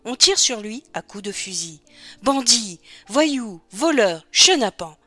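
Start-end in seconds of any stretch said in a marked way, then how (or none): 2.2-5.0 measured acted cries, each word falling; restrained baying of a pack; howling mob. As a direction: toss out each insult as a separate call. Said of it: "Qu'est-ce que c'est que ces hurlements?".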